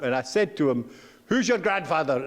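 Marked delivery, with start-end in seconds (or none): 1.3-2.2 a short, sharp mock demand; curt question. A mildly curt reply to a persistent schoolboy. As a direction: clip the question like an annoyed man. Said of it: "in a very curt voice".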